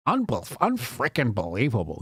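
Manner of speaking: stumbling mock echo; mocking imitation. Streamer showing how nobody talks, mockingly. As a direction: mimic the unnatural phrase in ridicule. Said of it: "Nobody talks like that".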